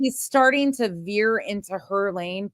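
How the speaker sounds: slow, drawn-out parroting; mocking echo. Host parroting Betty's lane remark, mocking. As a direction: repeat it slowly to ridicule the phrase. Mockingly echoes the streamer's phrase.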